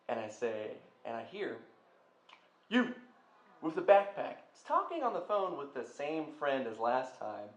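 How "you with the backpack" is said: loud call across the hallway, pitched up. Retold or imitated. Man at the office calls out to the student, loudly. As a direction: shout to stop someone passing by.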